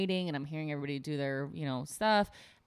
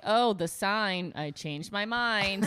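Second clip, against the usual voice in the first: mock sarcasm; 3 semitones higher, 3 dB louder, much slower than usual. Mock sarcastic quote to picketers.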